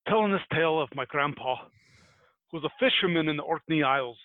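put-on amateur Scottish storyteller accent; lightly put-on Scottish accent; attempted Scottish accent. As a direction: tell it in a rough Scottish lilt. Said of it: "I'm gonna give this a shot".

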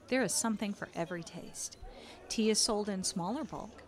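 calm, unhurried storyteller narration; scene narration. Acted. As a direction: paint the market scene for players. Game master sets the scene.

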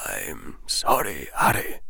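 put-on soft, sorrowful old wizard; softly. A narrator's reading. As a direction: say it gently, almost breaking. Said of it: "the old wizard said softly".

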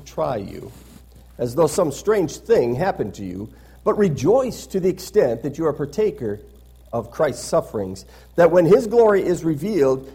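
emphatic, measured public Bible reading; declaimed Bible verse; scripture reading. Acted. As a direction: read scripture aloud to a congregation with rising and falling stress. Reads scripture aloud to congregation.

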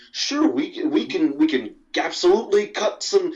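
high, hammed-up Leia cheerfully agreeing; a lightly voiced Leia playing along with the cut; mock Leia. Mocking Leia answering the camera crew, lightly voiced and cheerful. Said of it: "She's like".

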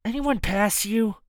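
slow, high thug query; gruff thug voice. Acted. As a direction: drag the question out slowly. Thugs talking, voiced.

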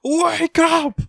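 very high, strained squawk; mock frantic cry. Elec shakes battered Gas to wake him, hammed-up high wail. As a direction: comically screech to rouse someone out cold. Mimics someone shaking Gas awake.

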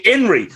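"Henry" opened on the vowel, like "Inry"; dropped H. Shown as a demonstration. Debater objects to the missing letter, H dropped from "Henry". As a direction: mockingly leave the H off "Henry". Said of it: "It's an H".

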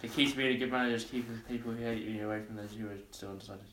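fast mock Russian, x1.6; Russian accent, rushed. Reading the card to the friend, fast Russian accent. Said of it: "No, Russian. I said it quickly".

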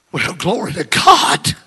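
loud, drawn-out jubilant shout; shouting praise. Retold or imitated. Healed man jumping up, shouted praise. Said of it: "he started shouting".

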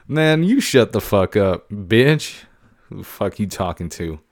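hammed-up tough-guy retort; mock tough comeback. Host fires back at caller.

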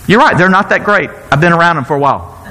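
a hint of a Trump voice, loosely done; Trump impression. Moses voiced lightly like Trump while retelling. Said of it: "I started sounding like Trump there".

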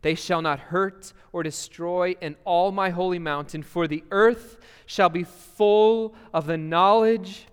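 measured, deliberate reading of Scripture; unhurried reading with space between the images; slow scripture reading. Acted. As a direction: read the text aloud slowly so they picture it. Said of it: "let's read this slowly".

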